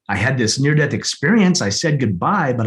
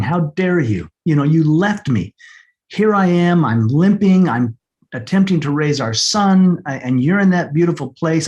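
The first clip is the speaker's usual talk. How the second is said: raised, half-angry reproach at his late wife; mock-confronting her at the grave, a bit louder; retold anger; 3 semitones higher, 3 dB louder than usual. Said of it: "I was angry at her".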